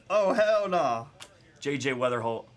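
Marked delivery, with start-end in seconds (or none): 0.1-1.1 emphatic refusal. Retold or imitated. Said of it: "And I said".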